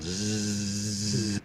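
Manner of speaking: long voiced buzz like a bee; sustained bee buzz. Shown as a demonstration. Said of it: "make the sound of a B Z sound".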